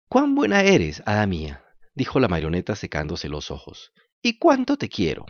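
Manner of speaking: a puppet thanking through drying tears; jerky creaky wooden puppet. Acted. Grateful puppet, drying his eyes.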